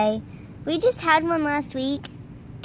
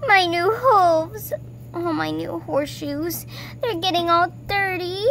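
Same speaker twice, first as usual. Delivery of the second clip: whiny; 4 semitones higher than usual. Acted. Whining about dirty hooves.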